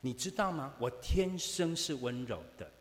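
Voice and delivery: a loud, mock-insistent claim to be gentle; mock insistence. Preacher mimics a colleague insisting he is gentle, loud. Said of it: "他说".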